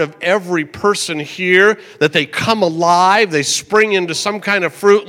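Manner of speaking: steady earnest praying to God; earnest pastor's prayer; pulpit prayer. Acted. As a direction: pray over the congregation.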